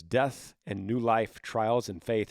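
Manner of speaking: reading subject line. Shown as a demonstration. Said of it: "The subject line on this one says".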